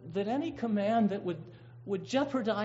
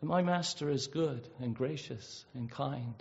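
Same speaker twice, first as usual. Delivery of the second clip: sincere confession; 4 semitones lower, 5 dB quieter than usual. Retold or imitated. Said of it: "it's saying to a world".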